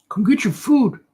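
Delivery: high calling voice, like feeding llamas; hollering at the creatures to come eat; Napoleon Dynamite impression. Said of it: "Napoleon Dynamite".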